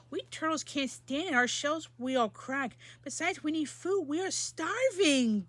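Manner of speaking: groaning plea. Acted. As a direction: beg the king from under the stack. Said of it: "groaned Mac".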